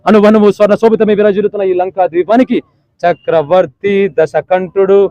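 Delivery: Jr NTR Ravana dialogue. Retold or imitated. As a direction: boast like a demon king, mildly. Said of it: "junior NTR అంటే అన్నగారి కోసం".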